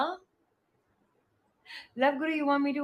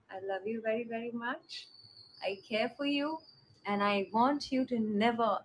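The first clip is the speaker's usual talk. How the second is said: tender; 4 semitones lower than usual. Real, not acted. Tender goodnight to fans.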